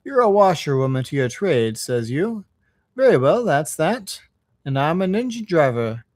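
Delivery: lightly voiced good-natured driver; a hint of a plain-spoken working driver; engine driver. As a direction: strike a friendly bargain, lightly in character.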